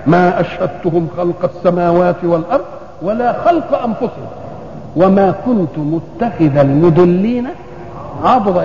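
slow, deliberate Qur'an quotation; verse recitation. Real, not acted. Preacher repeating creation verses to his listeners, slow recitation. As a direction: recite in drawn-out, measured phrases.

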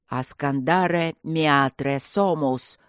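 медленно и ниже, заклинание; произнести заклинание грозно; прогрохотать как гром. Acted. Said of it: "прогрохотал как гром Асана". (волшебник произносит заклинание, медленно и грозно)

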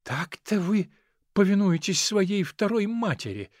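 lightly voiced tutor, mock tragic; a hint of a wounded tutor's lament; understated tragic reproach. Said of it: "трагическим голосом".

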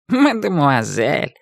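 мадемуазель drawn out slowly with an amused rise; a cat yielding with a mocking grin; smirking. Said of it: "усмехнулся кот".

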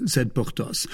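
ordinary delivery, nothing marked

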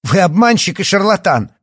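high, loud furious shout; insulting. Acted. Yana shouting insults at the doctor. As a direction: yell the insult.

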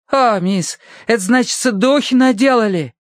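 high, frightened Irish maid; fearful Irish accent. A narrator's reading. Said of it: "испуганно заозиралась".

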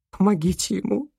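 high, tearful cry for help; sobbing plea. Acted. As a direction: beg through sobs. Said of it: "всхлипнула Лу".

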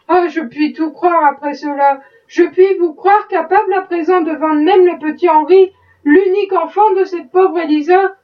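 wife's mild pained outcry at her husband; pained and indignant. Acted. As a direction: reproach him with wounded indignation. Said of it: "d'un ton douloureux et indigné".

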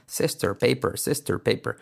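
"Sister, paper" with curled final R; drilled "Sister, paper" with English R; American R. Shown as a demonstration. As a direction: curl the tongue on each ending of "Sister, paper". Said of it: "la semana de la R".

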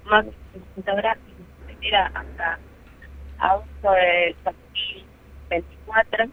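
distant, choppy headset audio; faraway headset mic. Real, not acted. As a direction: voice through a far-off earpiece mic. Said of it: "te escuchábamos muy lejos y".

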